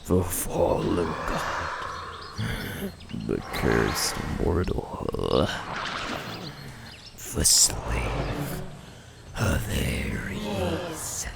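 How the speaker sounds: slow, hushed villain taunt; menacing whisper. Acted. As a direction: breathe the threat out slowly. Villain taunts the fallen Spartan.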